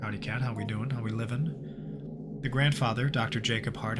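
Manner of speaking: measured narrator reading the game's journal; story narration. Acted. Gamer narrating the journal to viewers, steady storyteller voice. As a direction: read it like an eerie case file. Reads game story text aloud.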